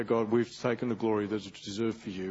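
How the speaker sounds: low, soft penitent prayer; quiet confession. Shown as a demonstration. Preacher modelling a prayer of confession to God, subdued and low.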